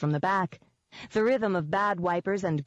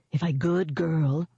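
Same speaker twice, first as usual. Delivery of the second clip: snarling; slower than usual. A narrator's reading. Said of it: "I snarled".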